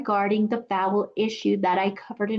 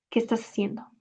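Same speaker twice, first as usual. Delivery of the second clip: softer, careful "¿Qué estás haciendo?"; teaching voice; clear breakdown; 5 dB quieter, much faster than usual. Shown as a demonstration. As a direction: say it clearly for learners. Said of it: "We'll break it down afterwards".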